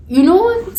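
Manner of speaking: high, loud laugh breaking toward tears. Real, not acted. Remembering crying like a baby, laughs high. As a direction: laugh it off while close to crying.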